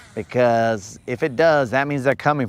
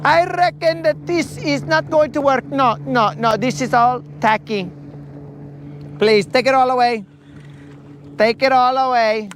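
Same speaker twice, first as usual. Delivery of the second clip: put-on high-pitched wedding planner accent mixed with Southern; fussy, mock-accented planner, pitched way up; Franz; 9 semitones higher than usual. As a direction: dismiss it all in a hammed-up foreign-Southern voice. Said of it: "also has to have that Southern accent".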